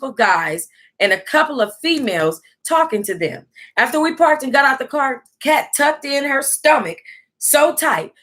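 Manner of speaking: steady storytelling read of a memoir; reading a book aloud. Acted. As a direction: read the chapter out to the viewers. Reads a book aloud on stream.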